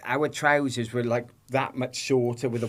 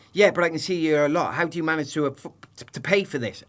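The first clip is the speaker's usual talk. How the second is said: fast, higher, louder hostile grilling; mock aggressive questioning; 4 semitones higher, 3 dB louder, faster than usual. Imitating the officer grilling him about money, quick and hostile. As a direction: rattle off the suspicious questions quickly. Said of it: "Really aggressive".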